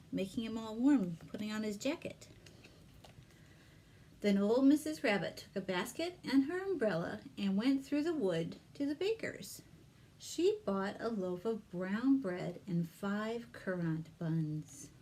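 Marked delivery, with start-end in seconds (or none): 4.2-14.9 lively read-aloud for little ones; story narration. Acted. Librarian reads Peter Rabbit to children, storytelling voice. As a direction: tell it like a picture-book reading.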